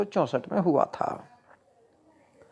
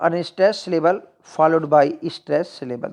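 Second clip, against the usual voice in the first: slow dictation; much slower than usual. Shown as a demonstration. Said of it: "teacher repeats definition slowly".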